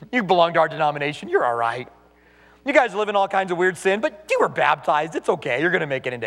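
mock a pastor who says sin is fine; mock soothing pastor. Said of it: "When he tells people".

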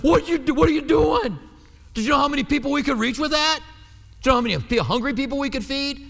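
outraged protest. Pretend. Church members scolding the woman over wasted perfume, indignant shout.

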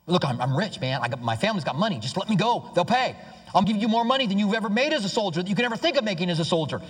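mock pleading, building in urgency; pleading condemned man. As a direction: imitate a man offering bribes for his life. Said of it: "They'd heard pleading".

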